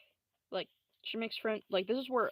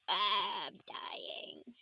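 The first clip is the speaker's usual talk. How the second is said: dying whisper; much slower than usual. Acted. Shot Susie gasping her last, faint whisper. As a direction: fade out as if dying.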